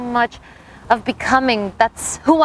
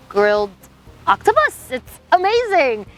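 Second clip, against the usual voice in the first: octopus jumps way up, gushing with delight; excited gushing; 3 semitones higher than usual. Retold or imitated. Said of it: "And I'm like".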